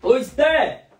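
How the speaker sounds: high, calling woman's voice; man doing a woman's voice. Retold or imitated. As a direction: call out like an annoyed mother. Calling out to Esté.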